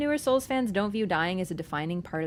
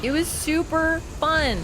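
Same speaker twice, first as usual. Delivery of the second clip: excited; 6 semitones higher, slower than usual. Real, not acted. Gushing about invasions.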